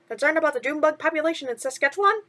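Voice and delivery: chirpy sidekick asking what's wrong; a hint of cartoon mouse; lightly voiced mouse. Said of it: "Timothy suggested".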